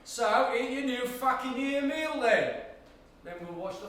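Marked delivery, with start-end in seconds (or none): 0.0-2.5 louder, snapping back; angry retort. Acted. Captor snaps back at his angry prisoner, louder. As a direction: bite back at the prisoner's cheek.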